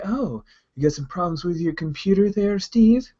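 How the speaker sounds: stroll in teasing. Acted.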